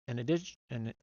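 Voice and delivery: stumbling over the words, garbled false starts; tongue-tied. Real, not acted. Reader losing their place in card text, tongue-tied. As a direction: trip over the words and give up. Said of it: "I'm talking too fast".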